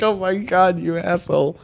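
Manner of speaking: high, laughing mock outrage; half laughing through a shocked insult. Kelly reacting to Ash's rudeness, high laughing outrage. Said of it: "It's like".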